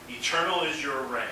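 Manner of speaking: usual speaking voice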